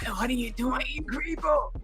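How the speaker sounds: hammed-up shouting and whimpering imitation of her; mock her switching between fake sobs and yelling; mocking her fake crying voice. Streamer mocks the woman's fake crying voice to viewers, hammed-up and shouted. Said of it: "She goes switching from the crying fake voice".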